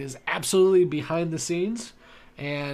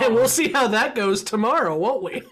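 laughing; 7 semitones higher, 5 dB louder than usual. Real, not acted. Laughing over teasing remark.

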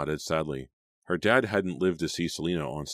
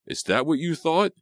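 high, loud, slowed indignant question; shrill cry; 12 semitones higher, 6 dB louder than usual. A narrator's reading. Boy stung by his friend's remark, shrill cry. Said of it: "Jake cried shrilly".

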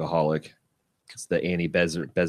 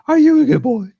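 squeaky high, louder pet voice; high talking to a dog; 9 dB louder than usual. Pretend. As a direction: pitch up and gush. Second take, much higher, louder.

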